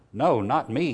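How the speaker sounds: loud desperate cry; shout. A narrator's reading. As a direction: shout it out in terror. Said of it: "he heard himself shout".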